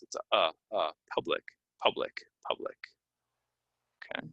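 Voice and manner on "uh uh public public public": short "uh", then "public" as PUH-blik; vowel drill. Shown as a demonstration. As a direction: isolate the uh, then repeat "public". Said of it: "how we pronounce this".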